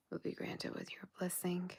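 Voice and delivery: soft whispered blessing. Real, not acted. Granting a viewer's wish, whispered. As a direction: breathe it like a blessing.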